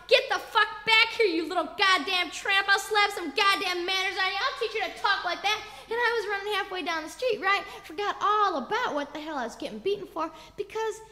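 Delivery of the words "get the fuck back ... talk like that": raised opening order, then settling; retold angry yell. Father threatens runaway daughter, moderately raised yell. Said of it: "made you yell even more".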